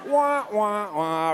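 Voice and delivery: comic "wah-wah" letdown noise; mock sad trombone. Shown as a demonstration. Preacher undercutting the disciples' hype, mock sad trombone. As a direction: imitate a deflating trombone, starting high.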